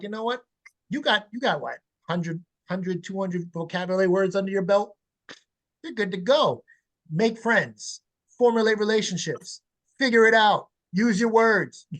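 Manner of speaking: hammed-up impatient parent, building to a laughing finish; mock dismissive parent. Mocking parents who stop teaching words.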